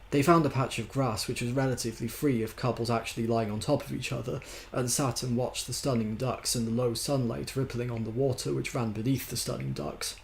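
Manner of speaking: measured novel reading; story narration. A narrator's reading. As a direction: narrate it with light emphasis. Reads a novel aloud.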